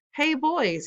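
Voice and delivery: shouting. A narrator's reading. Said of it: "he shouted".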